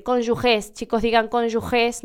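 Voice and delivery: cónyuges with a throaty h sound for g; lightly quoted teacher, cónyuges said correctly; professors' correction. Retold or imitated. Professors correcting law students, careful correct pronunciation. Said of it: "los profesores todo el tiempo tenían que repetir".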